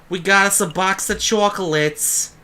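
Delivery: high, slow, stretched-out announcement; playfully excited. Pretend. Answering the guard with a bribe, playfully excited. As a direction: present it with hammed-up, singsong excitement. Proudly offering the chocolate bribe.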